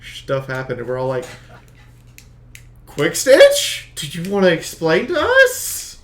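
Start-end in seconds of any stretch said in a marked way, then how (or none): 2.8-6.0 loud, high call-out. Retold or imitated. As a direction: demand an explanation loudly. Group confronts Quick Stitch.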